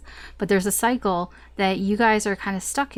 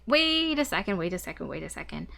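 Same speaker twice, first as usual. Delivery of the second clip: sudden second thoughts; 2 semitones lower than usual. Acted. Reader voicing the client's wavering over a choice, sudden second thoughts. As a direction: halt yourself mid-decision, voice falling away.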